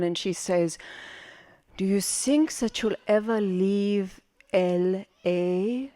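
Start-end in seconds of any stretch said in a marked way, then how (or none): 1.8-5.9 slow, measured asking; mother's pointed question. Acted. Mother looking her half-naked daughter up and down, slow question. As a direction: draw the question out slowly, lightly as the mother.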